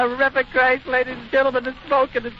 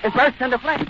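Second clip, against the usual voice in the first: alarmed. Real, not acted. Airship crashing live on air.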